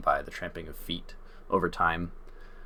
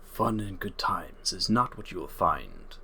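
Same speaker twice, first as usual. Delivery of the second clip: centaur guardian, stern. Acted.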